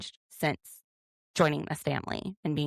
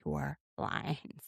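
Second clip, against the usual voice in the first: mock coaching, softer and measured; imitating Robin; 5 dB quieter than usual. Robin coaching Cody before his apology, softly mock-instructing. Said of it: "Robin's like".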